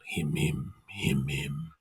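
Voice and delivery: ghostly murmured refrain; faint echo. Acted. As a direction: let the refrain die away.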